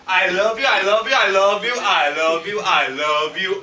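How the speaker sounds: gushing, piled-up declarations; repeated gushing. Acted. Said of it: "over and over again".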